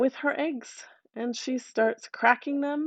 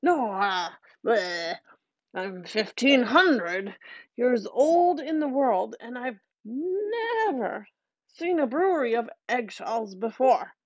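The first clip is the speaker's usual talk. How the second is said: put-on old fairy; 3 semitones higher than usual. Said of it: "starts saying".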